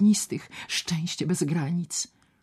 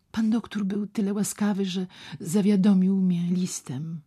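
put-on timid young lady; 5 semitones higher than usual. Ewa speaks to the doctor.

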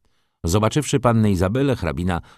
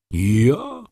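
cry out; 6 semitones higher, 3 dB louder than usual. A narrator's reading. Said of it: "krzyknął pan Tomasz".

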